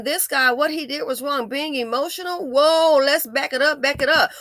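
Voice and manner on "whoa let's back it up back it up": emphatic whoa. Real, not acted. Rewinding the argument emphatically.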